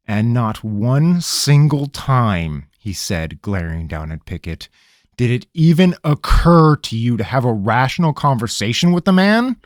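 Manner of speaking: an irritated ranger; stern interrogator. Acted. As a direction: cut through his stalling. Rabineau voice.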